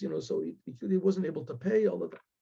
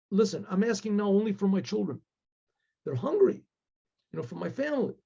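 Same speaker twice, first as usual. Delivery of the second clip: pleading prayer, climbing higher as it builds; acted father's mounting, imploring cry to God; desperate plea; 6 semitones higher than usual. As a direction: beg heaven for help, voice rising toward tears. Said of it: "And he starts crying".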